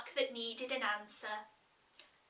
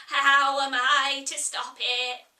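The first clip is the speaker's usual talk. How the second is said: Sheep, curt; 7 dB louder than usual. Acted. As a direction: answer without looking up, gruff. Sheep retorts.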